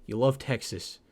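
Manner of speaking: a hint of a Russian accent; accidental Russian accent. Real, not acted. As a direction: let a slight Russian accent slip in. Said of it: "I don't know what that Russian accent".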